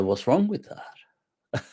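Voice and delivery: imitating a laid-back scholar's reply. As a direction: play it unbothered, taking your time. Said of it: "kind of like just laid back".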